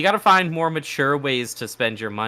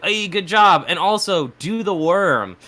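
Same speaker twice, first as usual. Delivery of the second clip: mock yell, pitched up; retold heckling yell; 5 semitones higher than usual. Friend heckling karaoke singers, mock yell. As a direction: imitate a friend calling out across a bar. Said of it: "he'd yell at them".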